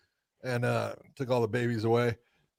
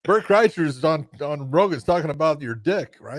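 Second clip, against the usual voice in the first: excited friend; 4 semitones higher, 4 dB louder than usual. Retold or imitated. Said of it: "the people listening ... then said".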